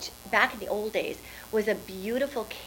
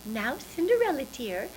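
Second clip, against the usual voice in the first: fairy godmother; 3 semitones higher than usual. Acted. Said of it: "And the fairy godmother said".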